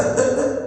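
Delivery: short imitated sobs; brief, voiced crying sounds; mock sobbing. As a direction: imitate a woman breaking into sobs. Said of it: "a chorar".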